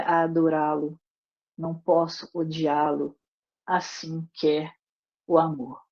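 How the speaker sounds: slow, measured poetry reading; poem recital. Acted. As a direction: read the verses slowly and deliberately. (leitura lenta e solene de poema)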